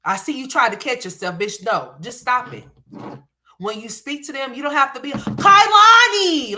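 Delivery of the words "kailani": high, drawn-out mimicked holler; mocking loud scream. Mocking how a mother calls her daughter, loud high screech. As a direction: imitate a parent screaming the child's name. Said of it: "why do you speak so loud".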